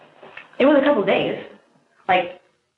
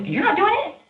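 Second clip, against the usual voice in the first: much higher mock voice of him; retold casual question. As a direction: toss it off up high, lightly imitating. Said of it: "And he goes".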